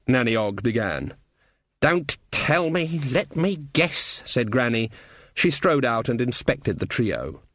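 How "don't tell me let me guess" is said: put-on slow, sardonic old woman; dry, slow old witch voice. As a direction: drawl it out knowingly. Granny voiced.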